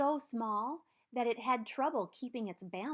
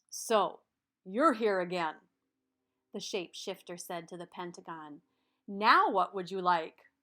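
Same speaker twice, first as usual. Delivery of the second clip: louder, knowing shapeshifter voice; 4 semitones lower, 4 dB louder than usual. Acted. Shapeshifter sees the pentagon come back, louder character voice. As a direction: greet the repeat visitor with a knowing air.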